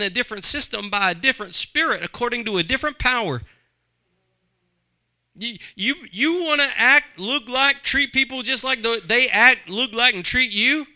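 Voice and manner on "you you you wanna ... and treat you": loud preaching. Real, not acted. Preacher builds to a climax.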